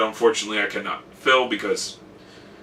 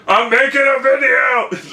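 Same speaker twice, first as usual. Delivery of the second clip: laughing call-out; 13 semitones higher, 4 dB louder than usual. Real, not acted. Calling out to someone interrupting.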